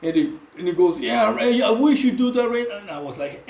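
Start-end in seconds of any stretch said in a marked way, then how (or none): 1.0-2.8 a touch louder and higher, mock eager loudness; retold too loud. Paisa blurting out his offer too loudly in the cell block, mild mock loudness. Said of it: "he said it too loud".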